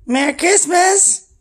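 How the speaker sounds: squealed high and slow, like cooing at a pet. Real, not acted. Greeting the dog, sky-high and drawn out.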